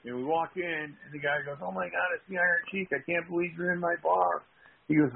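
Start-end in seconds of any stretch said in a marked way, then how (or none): 1.6-4.4 higher-pitched, quick excited greeting; lightly acted excitement; mildly starstruck. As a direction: imitate a fan amazed by a celebrity. Bar owner greets a celebrity.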